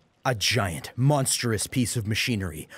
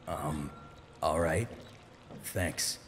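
shy and quiet; 5 semitones lower, 9 dB quieter, slower than usual. Acted. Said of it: "Cloud replied, shy".

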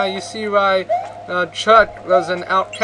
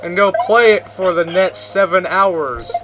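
voicing Chuck; 3 semitones higher, 4 dB louder than usual. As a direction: plead like an oblivious jock asking friends to play. Voicing Chuck inviting friends.

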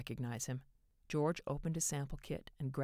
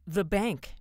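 breathless; 6 semitones higher, 11 dB louder than usual. A narrator's reading. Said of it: "George said breathlessly".

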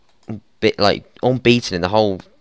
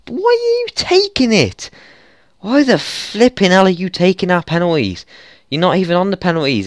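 high, loud, strained outrage; real furious rant; furious shout; 10 semitones higher, 5 dB louder than usual. Real, not acted. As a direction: scream the question at the screen. Ranting at player taking penalty.

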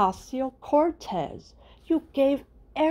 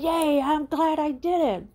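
higher, gloating mock cheer; mock gleeful; 5 semitones higher than usual. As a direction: chirp it like a smug cartoon villain. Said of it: "She said".

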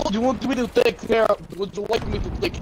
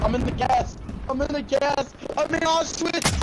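mock distress; 7 semitones higher than usual. Mock dying cries in game.

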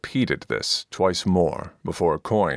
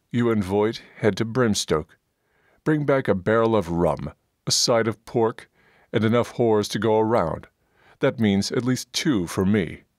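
lightly voiced dwarf, a bit higher and brash; gruff dwarf Coin; 4 semitones higher than usual. Dwarf leader ordering his comrades about, brash and crude. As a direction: boss the party around like a crude dwarf.

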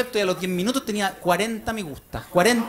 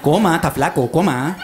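nagging mom; 4 semitones lower than usual. Retold or imitated. Mother on phone.

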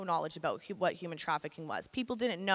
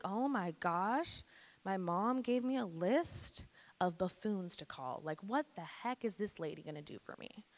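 exasperated disbelief; 6 dB quieter than usual. Retold or imitated. Teen dismissing the hotline lady, retold in weary disbelief. Scornful inner reaction to the caller.

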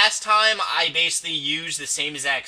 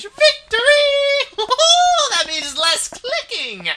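triumphant cheer; 6 dB louder, slower than usual. Real, not acted.

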